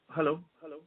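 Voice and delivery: usual speaking voice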